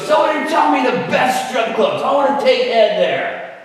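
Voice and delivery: imitating a slurring drunk, hollering; drunken holler. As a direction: holler it like a plastered man in a crowd. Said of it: "hollering out, his speech was slurred".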